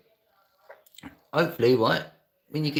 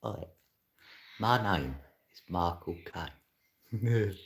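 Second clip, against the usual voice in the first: Michael Caine impression; 4 dB quieter, slower than usual. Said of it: "a bit like Mark Caine".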